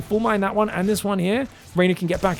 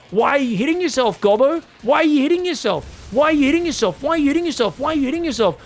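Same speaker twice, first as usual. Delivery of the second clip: higher, sing-song teasing; mock bully taunt; 7 semitones higher than usual. Caster voicing a player teasing his foe, higher mock taunt. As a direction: needle him like a playground bully. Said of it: "and said".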